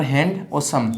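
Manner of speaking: हैंड and सम as separate chunks; stop between syllables. Shown as a demonstration. Teacher showing the middle stop, हैंड and सम kept apart. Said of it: "थोड़ा सा इसमें stop आता है बीच में".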